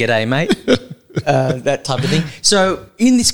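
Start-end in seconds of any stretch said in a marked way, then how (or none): 0.0-0.5 lightly hammed-up Aussie greeting; mock-ocker Australian accent. Shown as a demonstration. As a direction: play up your own Australian accent a touch. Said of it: "Right, okay, mine's like".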